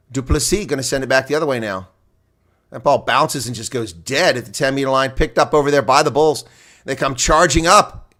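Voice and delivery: brisk live rugby commentary calling each phase; play-by-play. Acted. Streamer calls the rugby for viewers, live play-by-play. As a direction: call the match as it unfolds.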